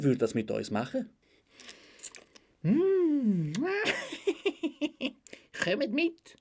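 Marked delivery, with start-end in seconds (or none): 2.6-6.4 very high voice with a long cackle; hum, cackle, then beckon in a high voice; creepy old man. Acted. Old man agreeing to go with the girls, creepy cackle. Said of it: "Nur so ein alter Mann".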